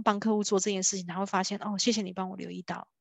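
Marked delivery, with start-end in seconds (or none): 1.6-2.9 soft unvoiced thanks in the client's voice; hushed thank-you; whispered client thanks. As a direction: breathe the grateful client's words.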